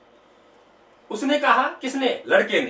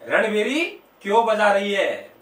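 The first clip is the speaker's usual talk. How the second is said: slowed, lightly tuneful question; mock melodious voice; 2 semitones lower, slower than usual. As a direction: draw it out in a put-on musical voice. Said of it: "सुरनिया आवाज में कह रहा है". (हल्के सुरीले लहजे में धीमा सवाल)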